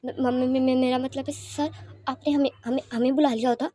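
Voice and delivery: stammering, shaken; flustered stutter before an important guest; trembling voice. Acted. Mrs Jin, startled by the visitor, stammers with a trembling voice. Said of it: "कपकपाती आवाज़ में कहती हैं".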